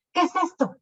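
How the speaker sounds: high, startled shout. Acted. King waking beside the witch, high startled shout. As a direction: shout it as the king wakes in shock. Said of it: "gritó".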